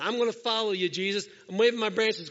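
eager worshipper. Retold or imitated. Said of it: "Action of commitment".

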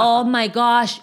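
slow, drawn-out "Oh" in a lightly voiced American; a hint of an awed American; mock gringo gasp. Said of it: "el que no dice God, sino gosh".

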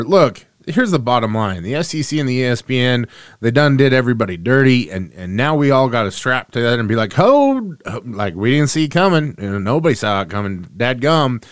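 put-on light Southern SEC country accent; hammed-up Southern SEC accent. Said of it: "I go into my S E C accent".

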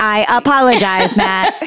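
lightly voiced Speak & Spell robot; a hint of a toy robot reading an apology; the speaker's robot voice. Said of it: "make it a speak and spell robot voice".

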